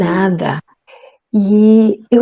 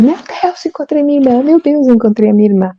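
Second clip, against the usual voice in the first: gritando e chorando; 6 semitones higher, faster than usual. Retold or imitated. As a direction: quote of a sister crying out, pitched high and fast. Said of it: "uma pessoa gritando e chorando". (imitando a irmã gritando e chorando de emoção)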